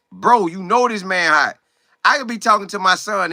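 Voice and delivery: ordinary talk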